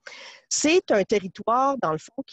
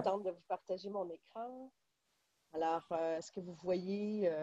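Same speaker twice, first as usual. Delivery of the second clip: sound cutting out; 16 dB quieter than usual. Real, not acted. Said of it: "le son coupe un peu".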